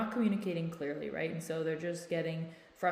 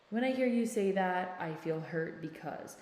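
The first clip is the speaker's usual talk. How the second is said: calm tone. Shown as a demonstration. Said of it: "come in with a calm tone of voice and say".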